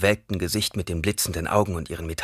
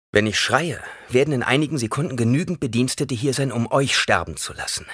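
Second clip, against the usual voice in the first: defiant threat; 6 semitones higher, 4 dB louder than usual. A narrator's reading. Boy threatening the old woman.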